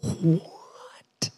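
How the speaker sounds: whispered, soft astonishment; stunned disbelief. Acted. Stunned reaction to Jesus's words.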